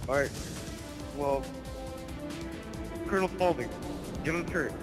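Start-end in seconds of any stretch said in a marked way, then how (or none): 3.1-4.7 shouted battle command, higher; barking orders. Acted. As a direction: call out orders over gunfire.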